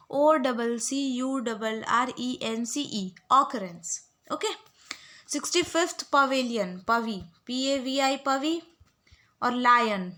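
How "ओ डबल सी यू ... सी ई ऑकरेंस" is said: slow drill spelling. Shown as a demonstration. Teacher drilling spelling for students to repeat. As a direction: drill it slowly for the class to repeat. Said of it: "आप लोग बार बार repeat कर लो".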